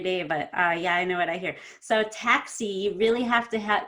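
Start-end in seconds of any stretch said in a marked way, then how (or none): 2.1-2.7 "taxi" with the ee drawn out; stretched final E. Shown as a demonstration. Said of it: "stretch out the E more than you think".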